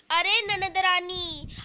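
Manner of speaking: slow, sugary-sweet address; sweetly. Acted. Sister-in-law teasing the husband's sister, slow and sugary. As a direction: coat the words in mock sweetness. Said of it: "बड़े प्यार से बोला".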